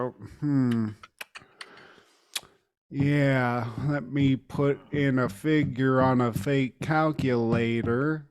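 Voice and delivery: low, soft, dazed clerk voice; a sleepy stoned store clerk, mumbled low; comatose clerk. Retold or imitated. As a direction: play the clerk half asleep and lost. Clerk voiced in comatose slow drawl.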